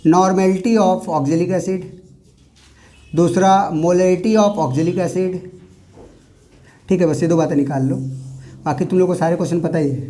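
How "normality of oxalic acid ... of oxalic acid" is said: slow dictation. Shown as a demonstration. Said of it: "सारे question एक साथ लिख लो".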